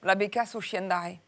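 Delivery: put-on resumed southern French accent. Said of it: "je reprends".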